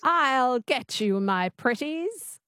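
slow, lightly voiced witch imitation; copying the witch twang. Shown as a demonstration. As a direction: try the witchy twang slowly. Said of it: "Just say that".

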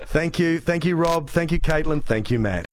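normal talking voice

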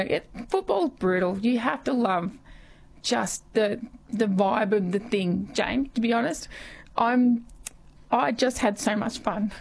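hoarse, worn-out voice; scratchy voice. Real, not acted. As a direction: talk through a scratchy throat. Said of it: "Kate McMahon has dropped in scratchy voice".

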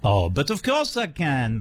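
slow, playful French accent. Shown as a demonstration. Host obliging a co-host's request, playful French accent. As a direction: put on a drawn-out French accent. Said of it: "can you do a French accent".

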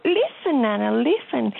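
put-on high little-girl voice dropping back down by the end; an eager toddler coaxing Nana; toddler's voice. Grandmother imitating granddaughter's plea, high child voice.

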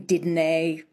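did nay said the Scots way, with a nay ending; Scots didnae. Shown as a demonstration. Coach demonstrating the Scots did nay ending. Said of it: "the nay ending".

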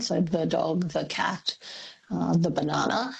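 "the" said with a weak schwa before consonants; "the dog, the cat, the banana" with a light unstressed "the". Shown as a demonstration. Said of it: "like an unstressed sound".

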